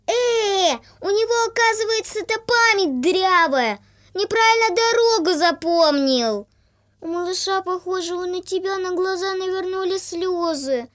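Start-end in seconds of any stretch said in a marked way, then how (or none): 0.1-6.5 loud, much higher outraged goose cries; indignant honking geese. A narrator's reading. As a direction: squawk with indignation. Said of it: "возмущаются".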